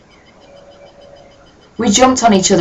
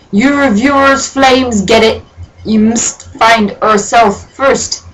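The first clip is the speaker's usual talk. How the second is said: slow, higher, hammed-up old sage; mock Dumbledore; 5 semitones higher, slower than usual. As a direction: preach it like a pompous wizard. Reader keeps Dumbledore voice.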